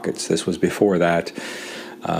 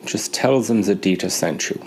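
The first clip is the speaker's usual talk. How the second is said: put-on German accent; 2 semitones higher than usual. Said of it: "he says".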